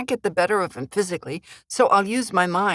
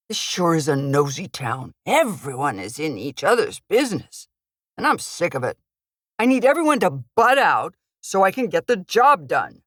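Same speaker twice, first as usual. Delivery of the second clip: gruff thug voice. Acted. Thug character voice.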